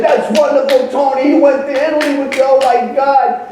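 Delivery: high-pitched, over-impressed friends; hammed-up admiration, pitch held high; mock gushing. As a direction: imitate a crowd fawning over the news. Friends gush over Tony's trip.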